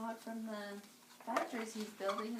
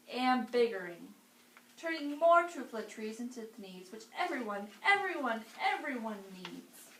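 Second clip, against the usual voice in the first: louder, hammed-up storybook rant; angry yell; 5 dB louder than usual. Onceler yells at the Lorax, hammed-up angry shouting. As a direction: yell back, defiant and puffed up. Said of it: "I yelled at the Lorax".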